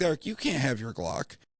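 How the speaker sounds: normal talking voice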